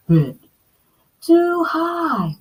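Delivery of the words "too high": mild yell. Acted. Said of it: "she yelled".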